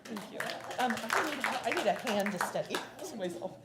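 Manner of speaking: soft, choked-up thank-yous; holding back tears while thanking; teary thanks. Real, not acted. Theater director accepting a donation check, tearfully thanking. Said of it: "I don't know why I'm crying".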